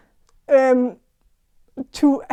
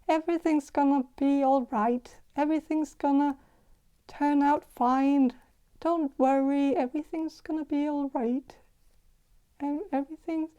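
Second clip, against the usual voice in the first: softer, soothing voice of a gentle woman; soft gentle reassurance; 5 dB quieter than usual. Retold or imitated. Tarot reader voicing a gentle woman, softly reassuring. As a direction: reassure her softly, like a kind grandmother. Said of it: "very soft and gentle voice".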